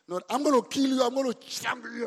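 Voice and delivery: high, loud threatening rant; hammed-up furious outburst; mock fury. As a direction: threaten like a scorned lover. Acted angry girlfriend quarrel.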